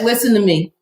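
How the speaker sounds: put-on mild New York accent; a touch of New York, stern doctor. Doctor ordering the mother to listen, mild New York accent. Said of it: "in her New York accent".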